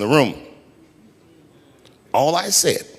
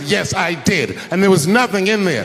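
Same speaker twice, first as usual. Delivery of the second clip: raised pitch, mildly indignant; imitated angry wife; 6 semitones higher than usual. Wife confronting husband about the empty box, mock angry. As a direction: throw it back as a mock-angry accusation. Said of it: "she was mad at me".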